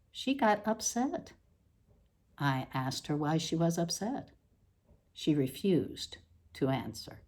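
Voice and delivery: measured, deliberate reading voice with dry pauses; literary reading. Acted. Author reading her odd prose to an audience, deadpan reading voice. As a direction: read the prose out with deadpan precision.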